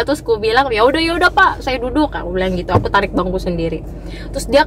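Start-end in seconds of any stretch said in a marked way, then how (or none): 0.7-2.1 mildly peeved compliance, starting high; retold annoyance. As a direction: give in with a touch of irritation. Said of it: "ya kan kesel ya".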